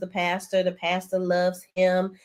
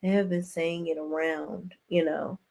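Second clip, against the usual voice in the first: softer, hesitant imitation; Tiffany quoting; 7 dB quieter than usual. Retelling Tiffany's hesitant answer, softer mock voice. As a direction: mimic a reluctant admission. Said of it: "Tiffany chimes in and says".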